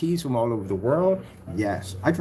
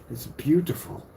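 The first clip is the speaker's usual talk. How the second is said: lightly put-on English accent, higher; 3 semitones higher, 4 dB quieter than usual. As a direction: repeat it with a hint of an English accent. Repeats it aping English accent.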